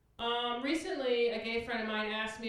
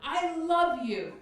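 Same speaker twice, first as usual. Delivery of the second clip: overly sweet, sarcastic compliment; mock-sincere sarcasm to stepdad; sarcastic praise; 5 semitones higher than usual. Shown as a demonstration. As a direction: lay the fake love on thick, slowly. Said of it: "good example of sarcasm".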